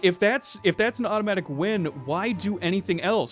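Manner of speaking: hammed-up indignant rant about the stupid rule; mock angry rant. Friend retelling a cartoon character's anger, mock-angry rant. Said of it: "really see her angry".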